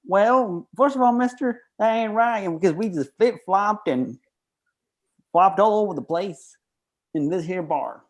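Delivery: high-pitched shark arguing back; protesting shark. Acted. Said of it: "the shark replies".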